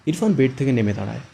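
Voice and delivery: narration line read too hard and loud; too forceful. Shown as a demonstration. Retake where the narration line comes out too forceful. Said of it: "এবার কিন্তু অনেকটা বেশি জোর হচ্ছে".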